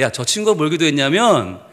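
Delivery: low, slow, deliberate reveal; acted divine voice, low and unhurried; voice of God. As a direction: explain as God, weighing each phrase. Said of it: "하나님 그러시는 거예요".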